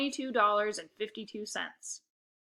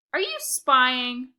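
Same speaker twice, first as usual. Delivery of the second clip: slow, louder accusing hiss of a question; snarled; 4 semitones higher, 8 dB louder, much slower than usual. Acted. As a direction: draw it out suspiciously, like a big sister catching him. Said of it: "she snarled".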